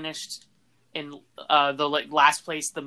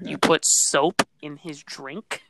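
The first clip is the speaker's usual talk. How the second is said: slow, deliberate retold confrontation; dead-serious anger; 4 dB louder, much slower than usual. Friend confronting the soap culprit, dead-serious mock anger. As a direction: spell out the accusation slowly, in mock fury. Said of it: "looked at him dead serious, like, f-, fiery anger".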